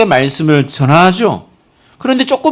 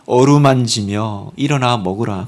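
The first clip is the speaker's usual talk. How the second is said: gentle; 5 semitones lower, slower than usual. Pretend. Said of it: "이러지 않으시고".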